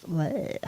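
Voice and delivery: drawn-out "bleh" of disgust; grossed-out noise. Real, not acted. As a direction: let out a yucky bleh. Disgusted at unwashed store produce.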